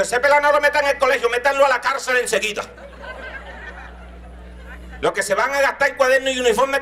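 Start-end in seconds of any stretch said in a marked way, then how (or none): 0.0-2.6 higher, fast scolding grandfather; mock grandfather. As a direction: rattle it off like an exasperated grandpa. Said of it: "el abuelo dijo".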